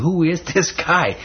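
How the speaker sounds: high, slow awed question; amazed question. Retold or imitated. Disciples after the calm, high slow awed question. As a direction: ask in stunned wonder. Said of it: "That's what they are asking".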